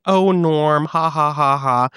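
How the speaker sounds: fake, spelled-out "ha ha" giggle; mock giggle. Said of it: "my mom is giggling".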